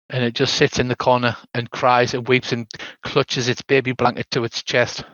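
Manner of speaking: usual speaking voice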